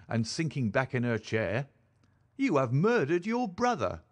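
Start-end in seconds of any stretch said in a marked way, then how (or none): 2.4-4.0 higher-pitched accusing cry; anguished cry. A narrator's reading. Mother blames daughter for exposing her son, anguished cry. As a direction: cry it as an accusation, without shouting. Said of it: "cried Madame Charpentier".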